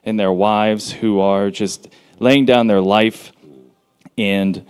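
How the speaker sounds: earnest, steady spoken prayer; public prayer. Real, not acted. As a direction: pray aloud for the group, phrase by phrase. Leads a prayer for the event.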